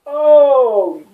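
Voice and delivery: high, loud alarmed cry; mock panic. Hearing the attorney's bad news, a high panicked cry. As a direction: yelp it out in mock horror. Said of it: "and I'm like".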